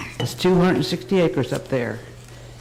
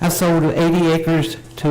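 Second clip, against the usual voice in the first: louder, right up at the microphone; closer to the mic; 4 dB louder than usual. Real, not acted. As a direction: lean in and speak up. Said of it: "get right up".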